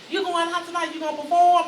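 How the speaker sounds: put-on old man voice. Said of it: "He said".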